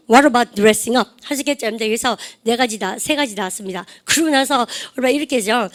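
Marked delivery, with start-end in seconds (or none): 0.1-1.1 slow, every word spaced out; drawn out for students to echo; slow model phrase. Shown as a demonstration. Teacher modelling for class repetition, slow. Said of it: "시작".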